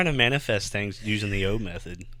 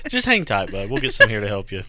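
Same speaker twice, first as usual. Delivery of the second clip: cop reassuring; 6 dB louder than usual. Retold or imitated. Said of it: "he's like".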